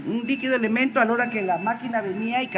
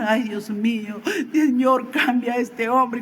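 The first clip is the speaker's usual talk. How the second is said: mildly exasperated retold plea; angry prayer; 3 semitones higher, slower than usual. Wife praying to God about her husband, mildly angry prayer. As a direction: drag out a frustrated plea to God, imitating her. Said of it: "estaba orando enojada, estaba con ira".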